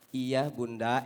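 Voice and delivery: low, meek yes; husband giving in to his scolding wife. Acted. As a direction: mumble obediently.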